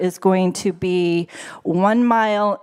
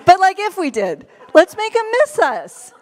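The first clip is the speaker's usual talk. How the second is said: laughing aside; 9 semitones higher, 4 dB louder than usual. Real, not acted. Joking aside after laugh.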